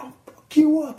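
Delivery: mock heckler yell. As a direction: imitate a screaming heckler.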